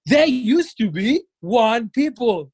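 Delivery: very slow, dramatic narrator voice; rapper impression. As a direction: draw it out like a solemn documentary. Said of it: "שאז הוא עושה".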